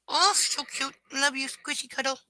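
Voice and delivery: high cooing pet voice. Real, not acted. Cooing to the dog on her lap. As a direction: coo at the puppy.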